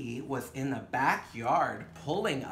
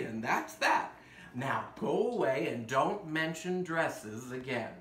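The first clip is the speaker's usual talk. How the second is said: stern father; 4 dB louder than usual. Acted. Father dismisses child.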